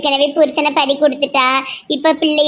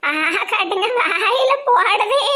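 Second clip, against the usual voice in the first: fake wailing mother-in-law; 3 semitones higher than usual. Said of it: "நீங்க ரொம்ப நடிக்காதீங்க".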